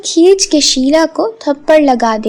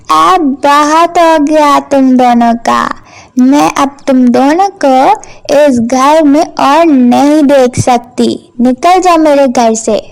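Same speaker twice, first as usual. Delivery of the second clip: loud furious order to get out; furious shouting; 5 dB louder than usual. Acted. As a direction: throw them out of the house. Stepmother throwing girls out. (गुस्से में चिल्लाकर निकालना)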